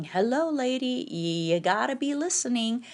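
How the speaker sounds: a hint of exasperated onlooker; imagined scolding audience. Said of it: "I know you're all thinking".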